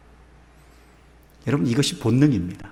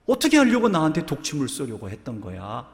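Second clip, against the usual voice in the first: startled scolding; 3 semitones higher than usual. Acted. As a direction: scold in alarm, then let the voice fall. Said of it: "소리를 꽥 질렀지요".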